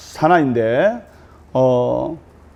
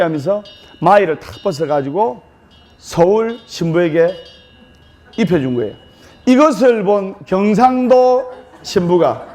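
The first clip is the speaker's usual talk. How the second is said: ordinary talk, nothing marked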